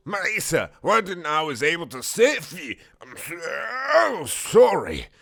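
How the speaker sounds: high, loud mock sobbing; hammed-up British wailing, last words dragged out; crying. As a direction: bawl the apology melodramatically. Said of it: "I cried bloody buckets of robot tears".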